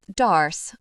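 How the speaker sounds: a lightly voiced coaxing drawl. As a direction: stretch the name out, coaxing her. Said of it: "I drawl".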